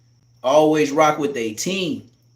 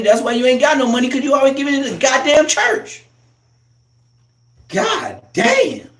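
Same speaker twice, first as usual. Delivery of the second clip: fast shout; 6 semitones higher, 3 dB louder than usual. Acted. Scolding mother's church giving.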